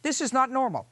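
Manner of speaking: voice cracking. A narrator's reading. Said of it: "his voice cracking at the edges".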